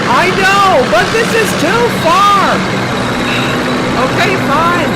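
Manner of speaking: high, loud, fast-talking detective; shouty excited detective; loud cop character. Acted. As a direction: blast it out like a hyped-up cop.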